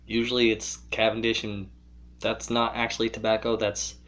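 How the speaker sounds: speaking around clenched pipe stem; talking with pipe in mouth. Real, not acted. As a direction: lips closed on stem. Seen 0: Pipe stem clenched between lips throughout; R frames show pipe only in hand.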